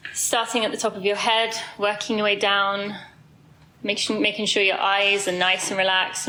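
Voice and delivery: slow, even meditation voice with long pauses; guided body scan. Real, not acted. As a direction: guide them calmly down the body, unhurried.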